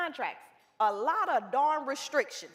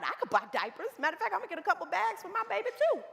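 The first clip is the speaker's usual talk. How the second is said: excited client; 3 semitones higher, faster than usual. Retold or imitated. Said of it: "She was excited".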